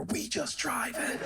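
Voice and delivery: high, slow, breezy we just driving; woman's breezy reply. Retold or imitated. Driver answering the lecture, slow and breezy. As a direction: shrug it off, easy and slow. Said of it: "I could see the bumper sticker".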